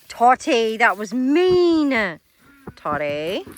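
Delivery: loud, drawn-out telling-off; scolding an animal. Real, not acted. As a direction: stretch out the reproach to a naughty pet. Scolding the goat.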